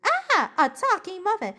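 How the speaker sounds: high-pitched playful muffin shriek; a mild, jokey cry of alarm; mock scream. Muffin screams at a talking muffin, mock alarm. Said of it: "The other muffin starts to scream".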